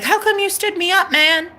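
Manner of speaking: high-pitched mock whine; retold complaint. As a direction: replay the hurt complaint up high. Retold phone complaint to crush.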